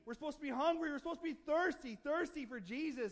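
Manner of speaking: preacher building fervour; impassioned preaching. Real, not acted. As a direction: press the congregation with urgent questions and declarations. Preaches with rising force.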